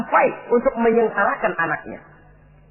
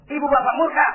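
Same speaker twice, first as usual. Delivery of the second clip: "murka" held high, left hanging; raised setup; 5 semitones higher than usual. Real, not acted. Preacher sets up parents' anger for congregation, pitched high and suspended. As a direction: lift "Ibu bapa murka" high, awaiting the answer.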